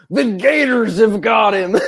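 imitating Kent panicking about gators; panicked Southern yell. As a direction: yell it like you've lost your dog to gators. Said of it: "he's yelling".

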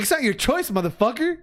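squeaky high mock comeback; high, cartoonish talk-back; high-pitched retort. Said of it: "I was like".

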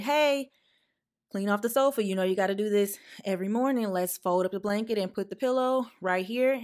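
firm aunt repeating the sofa order; firmer second ask. Retold or imitated. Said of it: "So I walked over to her and I said".

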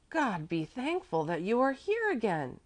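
slow, high cry of relief; relieved cry. A narrator's reading. Woman greets returning child, slow high relieved cry. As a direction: exclaim with relief, drawn out and high. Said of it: "she cried when Mäzli came out".

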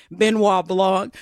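slow imitation Southern drawl; mock Southern accent. Imitating the movie detective, mock Southern accent. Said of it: "that's why I forgive the accent".

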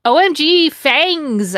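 high, loud fangirl gush; a bright burst of fake delight; excited squeal. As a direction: gush it out like a thrilled goth girl. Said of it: "I said".

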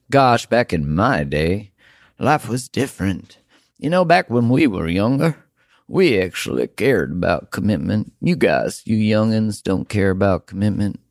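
lightly put-on Southern accent, teasing the young. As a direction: grumble like a Southern grandpa about kids these days. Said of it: "that was an accent from the South".

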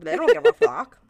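loud, high outburst; emphatic shout. Real, not acted. Host repeating their point to co-host, shouting.

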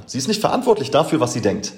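schnell und höher, ungläubig nachgesprochen; äfft die Ausrede ungläubig nach; spöttisch nachgeäfft. Retold or imitated. (spöttisch zitiert, schneller und höher)

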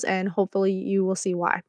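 hushed, secretive whisper; whispered aside. Real, not acted. To listeners, teasing why she loves Gunther, whispered. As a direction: lean in and whisper the tease.

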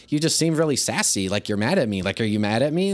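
opens lifted, then casual and questioning; casual, non-confrontational check; friendly teasing query. Acted. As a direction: lob a light comment at a sassy student. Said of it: "I'll say it, like, in a friendly".

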